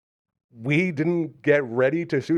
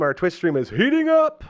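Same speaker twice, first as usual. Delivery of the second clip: hyped game announcer; NBA Jam announcer; 6 semitones higher, 4 dB louder than usual. Retold or imitated. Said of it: "they say in NBA Jam".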